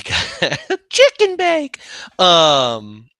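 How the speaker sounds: loud, high, laughing blurt; laughing outburst. Real, not acted. Host cracking up at the chicken bake riff, laughing shout. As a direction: blurt it out slowly through laughter.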